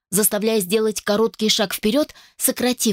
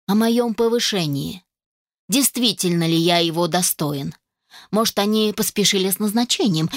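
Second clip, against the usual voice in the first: mocking. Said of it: "издевательски отозвался мужчина".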